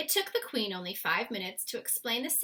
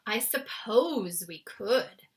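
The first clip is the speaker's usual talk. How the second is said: grudgingly; 6 dB louder, much slower than usual. Acted. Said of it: "admitted grudgingly".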